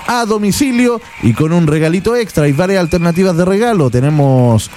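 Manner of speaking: upbeat radio ad read; infomercial. Acted. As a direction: sell it like a radio pitchman. Host pitches product on radio.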